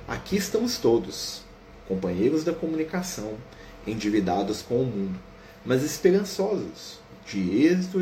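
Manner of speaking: slow, uplifted sermon read; solemn reading. Acted. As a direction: read the instructor's exhortation with gravity. Reads Telésforo's sermon.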